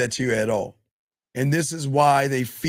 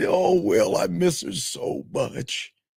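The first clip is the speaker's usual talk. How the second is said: slow, weepy, tearful crying voice; 5 semitones higher than usual. Retelling a scene where a grieving king tells his jester: imitating someone crying. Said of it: "So Henry was crying".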